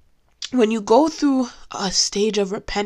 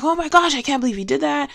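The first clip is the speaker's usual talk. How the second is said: higher-pitched retold exasperation; upset; 6 semitones higher than usual. Owner discovers dog peed on mattress, retold upset. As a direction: replay your disbelief, voice lifted. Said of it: "I was so upset".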